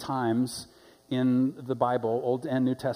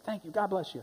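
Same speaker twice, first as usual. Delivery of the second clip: soft, higher-pitched thanks; grateful; 6 semitones higher, 6 dB quieter than usual. Retold or imitated. Homeless man thanks the driver for food, softly grateful. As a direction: thank them quietly, pitch lifted. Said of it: "he's so grateful".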